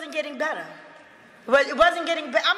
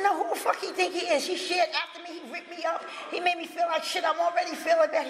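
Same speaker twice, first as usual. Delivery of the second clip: raised, higher, fast indignant complaint at first; retold angry outburst; 5 semitones higher than usual. Refusing a new sponsor to her friend, indignant. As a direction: vent at him like he wronged you.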